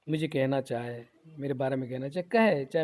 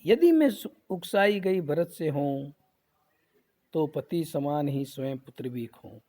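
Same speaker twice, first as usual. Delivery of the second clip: mildly acted oath. Kaikeyi swearing an oath on her son, lightly acted recitation. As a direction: recite a solemn vow in measured verse. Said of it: "अब कसम खा रही".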